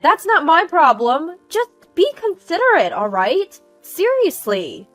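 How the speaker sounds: high, loud rebuke easing at the end; angry yelling. Acted. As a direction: snap back, brushing off the apology. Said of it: "She just yelled and left".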